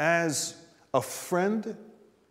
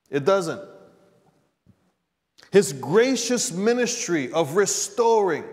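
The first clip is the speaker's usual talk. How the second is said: usual speaking voice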